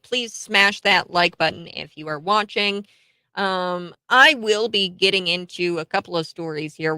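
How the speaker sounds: bright host welcome; show host opening. Acted. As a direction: greet the viewers like a host.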